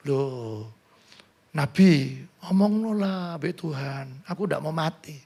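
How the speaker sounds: mock pleading king. Preacher imagines Hizkia begging the prophet, softly. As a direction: plead quietly as the king might.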